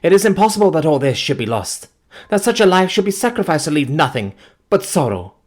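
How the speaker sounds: high, loud grieving plea; anguished pleading. Acted. Grieving fiancée pleading with the narrator, anguished. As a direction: beg for something to remain.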